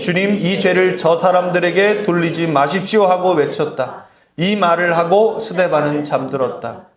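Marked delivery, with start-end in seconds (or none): 0.0-0.4 slow, measured reading aloud; scripture reading. Shown as a demonstration. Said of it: "시작". 0.4-3.1 solemn scripture reading. Shown as a demonstration. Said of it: "시작". 3.1-4.1 slow, measured reading aloud; scripture reading. Shown as a demonstration. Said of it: "시작".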